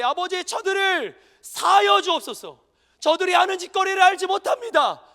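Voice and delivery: loud proclaimed reading; proclaiming the verse. Acted. Preacher proclaiming the verse to the congregation, loudly. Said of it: "그렇게 외쳤는데".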